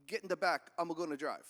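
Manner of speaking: lightly voiced old Pope; imagined Pope voice. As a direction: play a casual Pope giving orders. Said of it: "that's how he talked".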